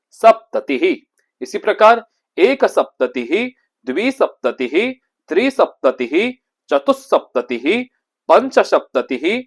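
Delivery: careful teacher recitation, each number spaced out; model pronunciation. Shown as a demonstration. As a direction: chant the numbers clearly for pupils to repeat. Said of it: "मेरे उच्चारण पर आप विशेष ध्यान रखिएगा".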